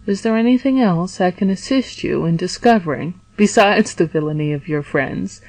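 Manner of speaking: plain reading voice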